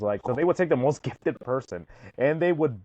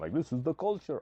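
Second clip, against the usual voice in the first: soft, horrible, fake Romanian accent; 3 semitones higher, 6 dB quieter than usual. Speaker imitating a medium matching people's hands, in a horrible Romanian accent. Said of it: "that's my horrible Romanian accent".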